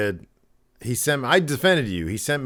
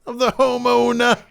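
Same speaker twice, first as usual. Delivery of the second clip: slow high hushed yell; drawn-out whisper-shout pitch; stage whisper; 13 semitones higher, 5 dB louder than usual. Pretend. Joining realtor bit.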